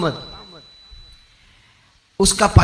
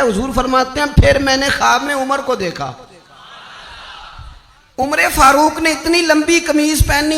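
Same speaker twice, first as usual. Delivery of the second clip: high, sustained preaching pitch; impassioned religious storytelling on a high line; fervent sermon narration; 6 semitones higher, 3 dB louder than usual. Real, not acted. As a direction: tell it in a raised, ringing pulpit voice.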